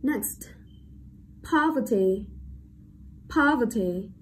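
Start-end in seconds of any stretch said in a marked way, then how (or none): 1.5-4.1 poverty with POV stressed; careful model of poverty, first syllable strongest. Shown as a demonstration. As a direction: lean on POV, let the rest of poverty go light. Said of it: "Trọng âm rơi vào âm tiết".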